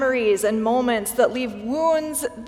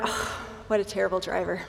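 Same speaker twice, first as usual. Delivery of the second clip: muttered under breath, much lower and quieter; 5 semitones lower, 7 dB quieter than usual. A preacher acts out reacting to a bad driver, muttered under breath. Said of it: "under my breath might even mutter".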